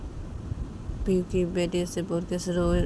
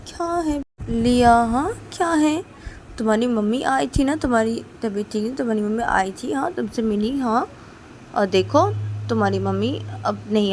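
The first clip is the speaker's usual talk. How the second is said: higher, louder coaxing mother voice; mother soothing; 4 semitones higher, 6 dB louder than usual. Acted. Mother to her little daughter, coaxing and soothing. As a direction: talk the child down gently but firmly.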